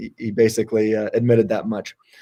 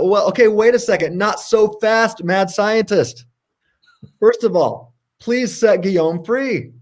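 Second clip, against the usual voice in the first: mock confrontation; 7 semitones higher than usual. Host ordering the mad scientist to free Guillaume, mock stern. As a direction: playfully halt the villain, pitched up and stretching words.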